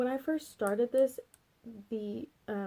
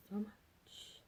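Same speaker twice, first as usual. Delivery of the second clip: "So much" repeated much softer; softer echo; 10 dB quieter than usual. Shown as a demonstration. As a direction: murmur "So much" again, quietly.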